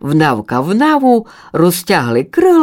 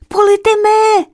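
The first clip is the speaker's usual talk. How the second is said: eager chick; 3 dB louder than usual. Acted. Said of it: "повіла Добровка".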